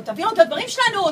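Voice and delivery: loud high demand; shouting. Retold or imitated. Boyfriend shouting at the thief to return their things. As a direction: bark the demand at him. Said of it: "ואז נמו צועק לו".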